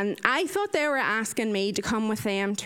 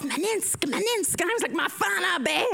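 frantic protest; 7 semitones higher than usual. Retold or imitated. Frantic French over the fan.

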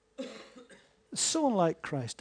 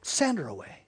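dismissive; 4 semitones lower than usual. Retold or imitated. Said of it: "they were saying".

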